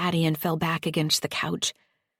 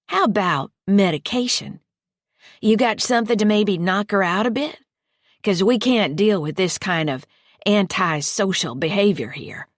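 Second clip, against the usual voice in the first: louder, insistent, callous demand; louder pushy woman; 2 semitones higher, 4 dB louder than usual. Acted. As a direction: push for it coldly. Patty demands drugging.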